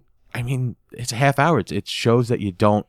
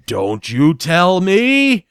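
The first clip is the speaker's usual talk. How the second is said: mock shout; 7 semitones higher, 5 dB louder, much slower than usual. Retold shouting from warehouse.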